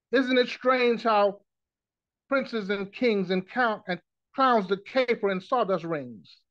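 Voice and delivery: unhurried recital of an inspirational poem; poem recitation. Acted. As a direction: recite it phrase by phrase, each line falling away.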